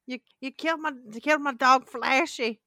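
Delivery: mock a country character's twang; country accent. Mimicking the movie character over his killed dog, country accent. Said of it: "he says it's so country".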